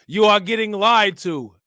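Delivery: hammed-up Staten Island yell, kicking them out; Staten Island accent. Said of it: "She got that Staten Island accent".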